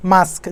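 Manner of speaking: "মাস্ক" ending in s then k; correct pronunciation. Shown as a demonstration. Teacher drilling the right form, "মাস্ক" pronounced "mask". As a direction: put the k at the very end of "মাস্ক". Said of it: "মানে কেটা তো শেষে আসে".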